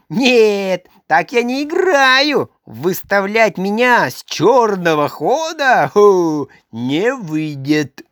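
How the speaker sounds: hammed-up outraged Karlsson; angry protest. A narrator's reading. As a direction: rant in wounded pride. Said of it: "кричал он".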